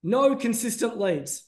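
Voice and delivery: "No consistent leads" drawn out slowly, leaning on "No"; slow, weighty naming of the headache; slow and deliberate. Shown as a demonstration. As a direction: read out each word slowly like a headline. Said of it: "and I go".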